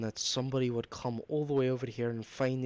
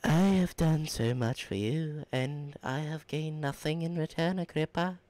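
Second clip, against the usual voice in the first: mock reproachful speech; 5 semitones higher than usual. Scolding a game character.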